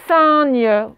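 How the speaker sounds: SIGNE stretched as nasal sain-gne; mispronunciation. Shown as a demonstration. Teacher warns pupils what misplaced N gives, mispronunciation. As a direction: turn the I of SIGNE into a long AIN. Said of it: "sinon ça fait".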